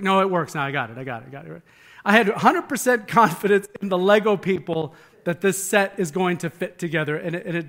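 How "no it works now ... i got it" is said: son proudly repeating as he drifts off; excited kid fading out. Retold or imitated. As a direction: son calling out that the Legos work, fading. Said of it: "He's like".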